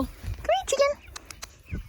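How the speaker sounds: very high coaxing call; calling chickens. Real, not acted. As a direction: sing out to the hen.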